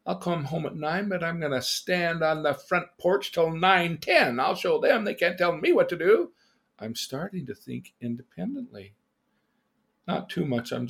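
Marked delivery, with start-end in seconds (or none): 0.0-6.3 put-on cocky teenage defiance, pitched up; I'll show them, mock rebellious; defiant kid. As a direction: play a stubborn kid talking back. Acting out his defiant younger self.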